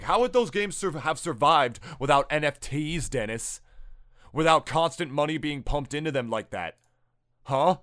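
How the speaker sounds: pointed, sarcastic rhetorical questions. Real, not acted. Challenging Dennis on games surviving without NFTs, sarcastic. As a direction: press the questions with mock sincerity. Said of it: "I'm being sarcastic!".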